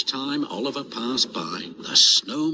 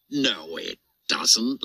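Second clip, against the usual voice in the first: put-on laughing little boy; 2 semitones lower, slower than usual. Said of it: "laughed the little boy".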